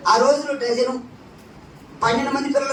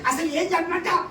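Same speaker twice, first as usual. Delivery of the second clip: higher, giggling bashful wife; mock bashful wife, higher and giggling; shy wife; 5 semitones higher, 4 dB quieter than usual. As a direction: gush with embarrassed laughter. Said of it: "ఏమంటది?".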